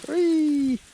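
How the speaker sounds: high, loud gleeful squeal; excited whoop. Real, not acted. Camper whooping by the fire, excited. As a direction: let out a joyful whoop.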